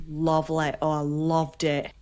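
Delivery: "lovely" and "loved" with O vowels; Yorkshire O's. Shown as a demonstration. Host showing her Yorkshire roots, "lovely" and "loved" with O's. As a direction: say "lovely" as "lov-leh", "loved" as "lovd". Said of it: "it's the O's".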